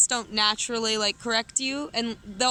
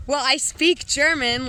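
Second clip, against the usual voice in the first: indignant retort; 4 semitones higher, 4 dB louder than usual. Retold or imitated. Retold indignant retort to Bavarian.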